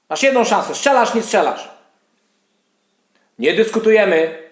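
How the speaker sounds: heated rant at the mods; firm, annoyed scolding; worked up. Acted. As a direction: lay down the law, losing your temper. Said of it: "bo zdenerwowałem się".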